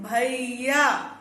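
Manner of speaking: भैया stretched long and slow like a village call; calling out brother. Shown as a demonstration. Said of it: "ये प्लुत स्वर के उदाहरण हैं". (गांव की तरह भैया को लंबा खींचकर पुकारना)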